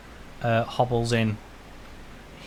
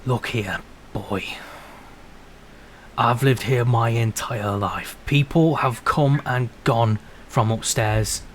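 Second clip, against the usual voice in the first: lightly voiced old man's rebuke; old local laying down the law; stern old shopkeeper; 2 semitones lower than usual. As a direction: put the youngster in his place, deliberately.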